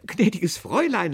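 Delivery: high, loud, jovial address; smiling. A narrator's reading. Boss soothing the angry customer, smiling. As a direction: address her with a smile, unruffled. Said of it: "lächelte der Chef".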